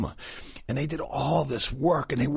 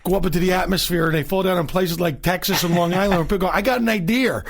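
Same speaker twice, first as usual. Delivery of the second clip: put-on Boston accent, still going; 8 semitones higher, 4 dB louder than usual. Continues Boston voice.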